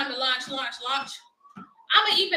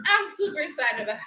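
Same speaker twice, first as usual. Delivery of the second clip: laughing excitement; faster than usual. Real, not acted.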